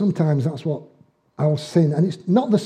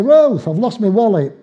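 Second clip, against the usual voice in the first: slow, higher, louder complaint to his wife; exasperated complaint; 5 semitones higher, 4 dB louder than usual. Retold or imitated. Husband tells wife again that his wallet's gone, exasperated. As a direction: drag it out like a fed-up husband.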